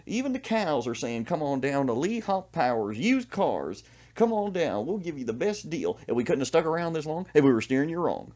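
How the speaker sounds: mock car dealer ad. Mocking a local car dealer's TV commercial, hammed-up pitch. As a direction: ham up the hometown dealer's jingle.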